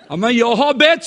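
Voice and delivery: high, loud pleading with a laugh; mimicking coworker. Coworker insists she prayed about the gift, high mock plea. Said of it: "sa hon".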